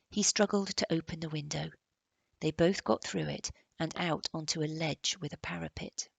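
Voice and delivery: ordinary delivery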